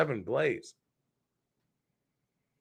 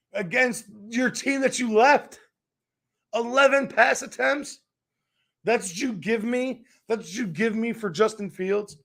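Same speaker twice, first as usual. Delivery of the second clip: indignant; 5 semitones higher than usual. Real, not acted. Indignant rant about pass attempts.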